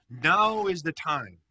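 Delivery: loud, slow proclamation; emphatic proclamation. Acted. Jesus approving the cry to the crowd, emphatic proclamation.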